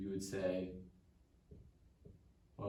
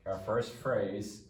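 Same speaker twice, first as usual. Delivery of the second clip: slow, spelled out; much slower than usual. Shown as a demonstration.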